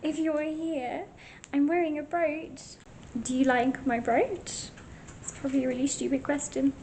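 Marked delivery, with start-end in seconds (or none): 0.0-4.7 calling out. Real, not acted. Calling out to a ghost.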